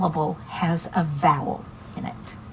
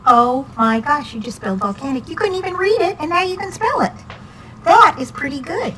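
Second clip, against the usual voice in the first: excited praise; 6 semitones higher, 5 dB louder than usual. Real, not acted. Tutor praises child's spelling.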